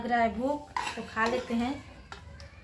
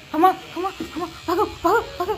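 playful chase cry; 6 semitones higher than usual. Pretend. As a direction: pretend to chase the boy off. Playful chasing game with child.

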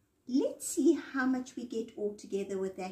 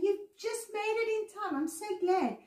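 bright greeting; 9 semitones higher, faster than usual. Acted. Teacher greeting children on video.

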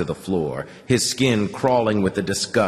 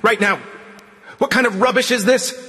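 higher and louder, a guard gasping in outrage; 12 semitones higher, 4 dB louder than usual. A narrator's reading. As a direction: bark it out, breathless and outraged. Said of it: "A gasping voice resounded in his ear".

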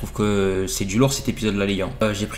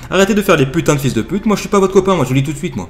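hammed-up furious yelling, louder and higher; mock rage; 5 semitones higher, 7 dB louder, faster than usual. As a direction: blow up at the caller in fake fury. Telemarketer explodes with insults.

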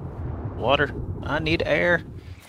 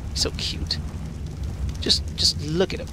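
gushing whisper; 6 semitones higher than usual. Real, not acted. Gushing over the pet.

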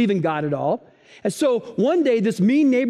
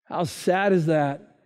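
put-on grumpy old neighbor; 6 semitones lower, slower than usual. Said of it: "grumpy old neighbor goes".

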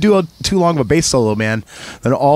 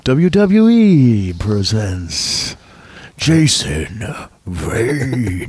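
slow booming ring announcer; wrestling announcer; 3 semitones lower, much slower than usual. Pretend.

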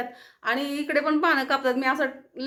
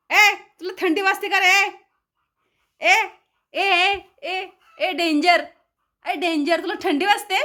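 high teasing call to dog; 5 semitones higher, 5 dB louder than usual. Real, not acted.

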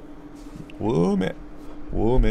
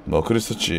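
ordinary delivery

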